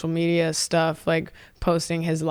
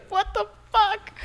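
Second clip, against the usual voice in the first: retold alarm. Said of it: "my dad's literally like".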